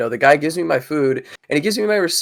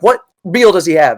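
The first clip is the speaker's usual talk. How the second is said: louder, mock-irritated manager; imitated irritated manager; 3 semitones higher, 5 dB louder than usual. Manager questioning employee about the order, mock irritation. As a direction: demand it like an impatient boss. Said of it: "She's like".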